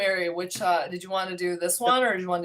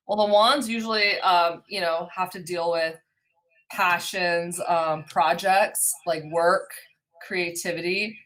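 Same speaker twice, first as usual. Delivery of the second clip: big hall echo. Real, not acted. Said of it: "Sorry, I'm echoing".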